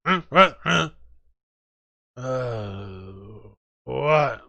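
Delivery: a lightly voiced drunk stirring from sleep; groggy waking drunk. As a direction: grunt confused half-words as if just woken. Drunk friend being woken up.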